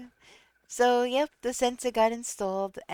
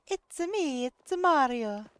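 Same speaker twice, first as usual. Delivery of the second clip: lightly voiced Mario with Italian accent; a hint of Mario's Italian lilt; Mario impression; 5 semitones higher than usual. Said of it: "in the accent that he's got".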